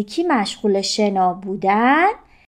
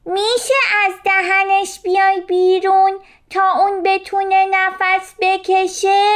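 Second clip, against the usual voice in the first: much higher, louder call to the jellyfish; louder shout; 9 semitones higher than usual. A narrator's reading. Little fish shouting at the jellyfish a second time, louder. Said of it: "با صدای بلندتر فریاد زد".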